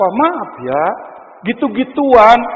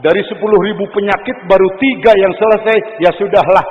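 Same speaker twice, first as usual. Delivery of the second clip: tender voice of God; 5 semitones lower than usual. Acted. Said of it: "Allah melihat".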